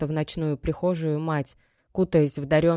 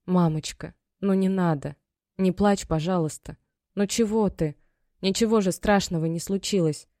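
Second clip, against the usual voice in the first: Maya comforting her crying mother; guiltily through tears; 2 semitones higher than usual. Acted. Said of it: "приговаривая виновато сквозь слёзы". (дочь виновато сквозь слёзы утешает мать)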